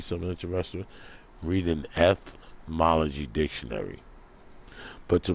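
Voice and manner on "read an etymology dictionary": "etymology" broken in two with a pause after the first syllable; measured, teacherly split of "etymology"; deliberate repetition. Shown as a demonstration. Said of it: "repeating it so you know".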